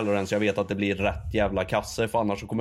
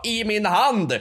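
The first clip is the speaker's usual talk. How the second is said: indignant reply; 9 semitones higher, 3 dB louder, slower than usual. Retold or imitated. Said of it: "Och jag sa".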